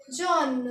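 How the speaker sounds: जॉन said as French jaune, long o; French pronunciation of जॉन. Shown as a demonstration. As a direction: say जॉन with a rounded vowel, clear final n. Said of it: "इसको pronounce करेंगे".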